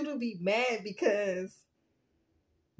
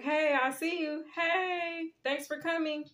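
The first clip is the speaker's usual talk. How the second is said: higher, sing-out hello to unwelcome guests; mock-friendly greeting; 5 semitones higher than usual. Reader greets the haters watching her readings, mock-friendly. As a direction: greet your haters like welcome company.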